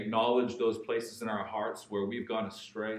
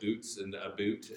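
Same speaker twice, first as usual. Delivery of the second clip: Ontario accent; 5 dB quieter than usual. Shown as a demonstration. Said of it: "the accent that you hear in the media".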